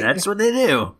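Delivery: put-on Scottish accent. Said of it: "that's what us Scots do".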